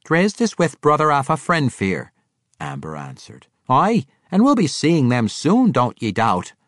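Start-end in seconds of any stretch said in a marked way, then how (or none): 0.0-2.1 higher, bright-toned dwarf woman; a cheerful dwarf woman answering; lady dwarf. Acted. Amber telling Bruner where Drizzt is, lively. 3.7-6.5 higher, bright-toned dwarf woman; a cheerful dwarf woman answering; lady dwarf. Acted. Amber telling Bruner where Drizzt is, lively.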